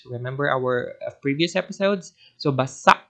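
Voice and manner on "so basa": basa met glottisslag aan het eind; glottal catch at the end. Shown as a demonstration. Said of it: "make sure that there is a glottal catch there at the end".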